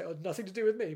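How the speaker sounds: craven excuse. Retold or imitated. Shrugging off blame for the Time and the Rani script, mock craven. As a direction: brush off the blame in a put-on craven tone. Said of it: "it's a bit craven of me, isn't it, to say".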